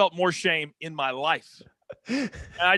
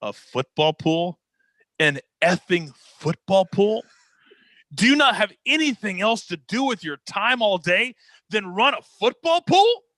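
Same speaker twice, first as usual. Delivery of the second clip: Vince McMahon yelling; 2 semitones higher, 3 dB louder than usual. Retold or imitated. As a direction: spit it in his face, mounting outrage. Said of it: "he goes".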